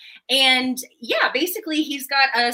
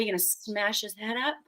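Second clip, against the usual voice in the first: hushed, thrilled whisper; breathy whisper; 4 semitones lower, 12 dB quieter than usual. Acted. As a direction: ask it in a soft, excited hush. Awed whisper at threat.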